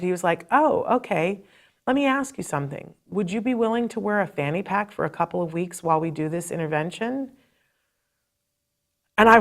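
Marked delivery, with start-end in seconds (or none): 0.5-7.3 softer, gently reasoning voice; calm and collected. Retold or imitated. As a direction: imitate a patient expert defusing anger. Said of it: "so calm and cool and collected".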